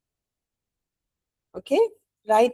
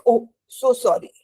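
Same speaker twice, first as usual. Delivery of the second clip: put-on apologetic child. Shown as a demonstration. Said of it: "you say".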